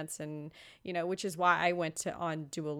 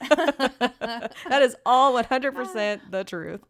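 slow, mock-earnest laughing delivery; sarcastic; 5 semitones higher, 8 dB louder, slower than usual. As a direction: drag it out like a fake testimonial.

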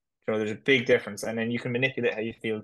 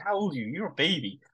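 mocking, pitched up; teasing high voice; 5 semitones higher than usual. Man teasing a tough fourteen-year-old, high mock voice. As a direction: rib the kid about his age.

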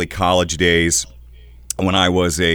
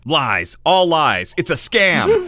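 mock outrage; 8 semitones higher, slower than usual. Host jokingly denounces pay-to-play.

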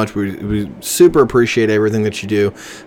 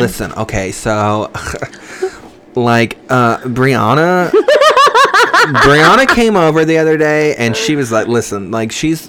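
put-on college girl voice; 3 semitones higher than usual. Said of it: "I can't keep the voice".

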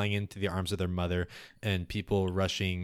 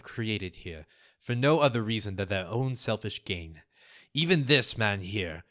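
mildly raised voice addressing a crowd; lightly projected public speech; rally your people, measured and deliberate; loud voice. Acted. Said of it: "in a loud voice".

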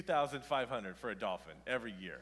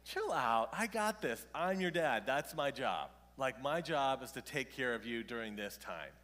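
tag; 4 dB louder than usual. Retold or imitated. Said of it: "I'd be like".

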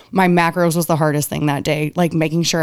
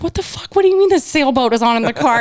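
mock husband confusion; 8 semitones higher than usual. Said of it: "he's like".

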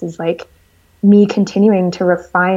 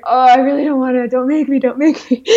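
mock pleading; 5 semitones higher than usual. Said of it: "I was like".

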